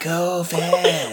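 vampire voice. Retold or imitated. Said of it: "What is our vampire voice right now".

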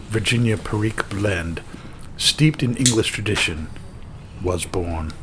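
lightly put-on quote voice, measured phrasing. Host reading the tobacco maker's quote, lightly performed impression. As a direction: read it out as a mild, guessed-at impression. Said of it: "in my best, uh, G L P's impression".

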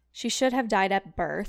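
dramatic British diary reading; theatrical British diarist; British accent. Acted. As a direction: deliver it in a put-on British accent. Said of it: "British accent".

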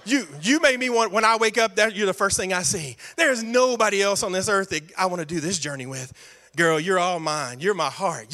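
low, lightly voiced romancer sweet-talking his wife; smooth-talking Abram. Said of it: "this is what Abram talks about".

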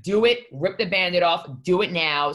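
urging push. Retold or imitated. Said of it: "she's like".

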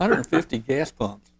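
slow and winded, trailing off; panting the words out slowly; out of breath. Real, not acted. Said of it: "I'm out of breath".

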